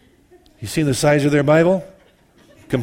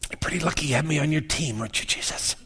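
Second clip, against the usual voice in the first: smug boast; 6 dB quieter, faster than usual. Pretend. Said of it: "you know, it's".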